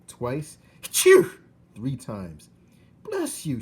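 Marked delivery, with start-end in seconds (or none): 3.0-3.6 high, loud blessing; shout. Acted. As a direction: holler it cheerfully. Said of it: "shouted Mig".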